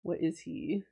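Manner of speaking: sweet princess voice, as if redeemed; cartoon princess. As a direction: play a storybook princess. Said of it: "they don't think I just talk like this all the time".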